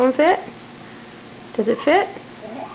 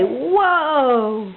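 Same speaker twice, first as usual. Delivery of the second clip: modelling a word. Shown as a demonstration.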